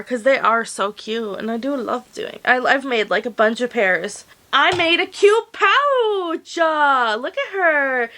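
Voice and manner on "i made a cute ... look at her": showing off with delight; excited, slow and high. Real, not acted. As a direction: gush over the cute pouch.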